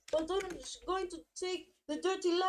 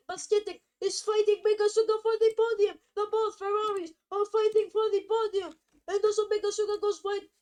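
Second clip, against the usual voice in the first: excited; 3 semitones higher, 6 dB louder than usual. Real, not acted. Battle for the podium, commentator.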